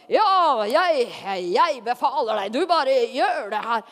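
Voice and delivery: lightly hammed-up commander; mock bossy command. Showing how the Spirit does not come, mock commanding. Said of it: "Han kom ikke liksom".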